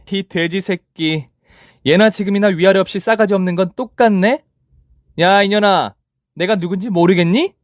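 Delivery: mock the rival with scorn; sneering taunt. (비웃으며 조롱하는 말투)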